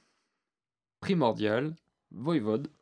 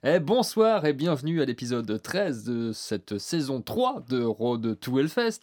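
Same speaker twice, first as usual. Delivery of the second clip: animateur radio. Acted. Ouverture d'émission en animateur.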